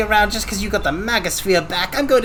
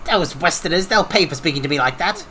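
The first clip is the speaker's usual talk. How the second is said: low mock villain grumble; 8 semitones lower, faster than usual. Voicing Muraji's spite at the Westerners, low mock menace. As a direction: lower villainous muttering, laughing.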